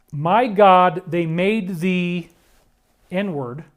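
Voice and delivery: slow, hushed and broken, like he's barely holding it together; hushed anguish. Retold or imitated. Retelling a crushed man's words after a secret meeting, hushed and slow. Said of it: "that's how he said it".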